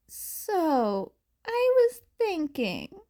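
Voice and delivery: lightly voiced girl starting an idea; Uraraka's voice. A narrator's reading. Girl raising a plan to her friend, lightly voiced.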